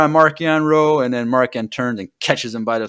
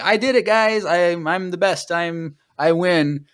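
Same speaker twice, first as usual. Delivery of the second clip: giddy villain gloating; 4 semitones higher than usual. Retold or imitated. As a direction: gloat like a villain who just won. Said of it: "he's, like, super happy and giddy".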